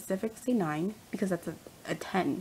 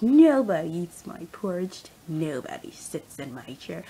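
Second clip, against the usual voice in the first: slow, deadpan imitation of Regina; imitating Regina claiming her chair, mock stern; mock dead serious; 5 dB louder, slower than usual. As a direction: lay down the law slowly and gravely. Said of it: "she was mad serious".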